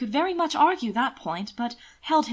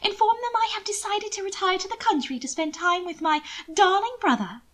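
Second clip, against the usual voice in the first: amused; 10 semitones higher than usual. A narrator's reading. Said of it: "amused by his worries".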